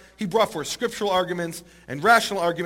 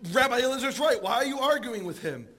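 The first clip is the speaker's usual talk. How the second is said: lightly raised, higher proclaiming voice; voice from heaven calling out; 6 semitones higher than usual. Retold or imitated. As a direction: mildly declaim it as a voice from above. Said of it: "this voice calling out from heaven".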